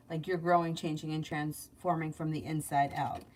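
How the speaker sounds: even, low-key reading delivery; psychic reading. Acted. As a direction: read out predictions in a steady run. Reads out weekly predictions.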